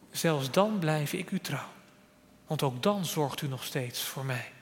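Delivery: quiet pledge of faith; trusting prayer. Acted. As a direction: drop to a soft, steady prayer. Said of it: "Dan durf je ook zo te bidden".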